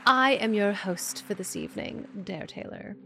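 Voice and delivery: measured, formal podcast-host greeting; mock host voice. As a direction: put on a grand evening-host intro. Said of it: "not gonna talk like this".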